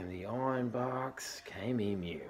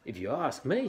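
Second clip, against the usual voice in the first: high, loud know-it-all; Platypus voice; 6 semitones higher, 5 dB louder than usual. Acted. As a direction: pitch it up and louder.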